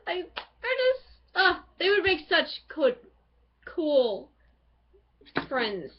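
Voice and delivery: overexcited, tripping over words; too thrilled to get a sentence out; breathless fan gush; gushing excitedly. Real, not acted. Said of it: "Oh, I can't talk at all".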